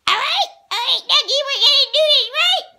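loud, fast, laughing pep talk; excited laughing shout. Real, not acted. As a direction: hype it up with laughs. Excited shout to Dougie toy.

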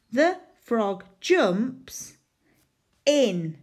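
slow, careful read-back. Shown as a demonstration. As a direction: drag each word as you write. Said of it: "reading back while writing".

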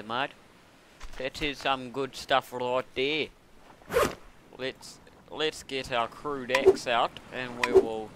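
slow, lightly put-on Australian drawl; butchered Australian accent, drawn out; mock Australian accent. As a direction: do a hammed-up Australian. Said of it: "like an Australian".

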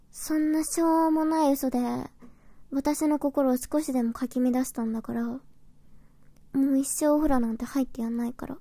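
huffy flustered denial. Acted. Pouting refusal after the trick.

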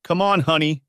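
father gently leading his daughter, choked up; choked with emotion. A narrator's reading. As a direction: hold back tears as you comfort her. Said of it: "in a voice choked with emotion".

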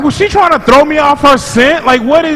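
high-pitched, incredulous reenactment; retold bewilderment. Passenger baffled by her seatmate's behavior, retold in high incredulous voice. Retelling own baffled reaction.

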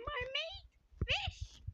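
slow unvoiced whisper; stunned whisper. Real, not acted. Player whispers at the fish transformation, stunned whisper. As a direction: breathe it out in disbelief.

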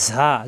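ঝা with the tongue pressed low; long, pressed ঝা; pressed buzzing consonant. Shown as a demonstration. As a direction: press and hold the buzz at the start of ঝা. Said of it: "জিব্বার নিচেতে চাপ দিয়ে".

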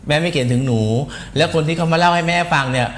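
low, measured motherly voice; a touch of patronising calm; mock motherly reassurance. Mock mother calms absent person.

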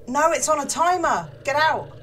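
loud panicked shout; startled shouting. Real, not acted. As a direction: yell at the screen in alarm. Yelling at game scare.

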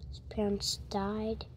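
whispering. Real, not acted. Sad scene in movie.

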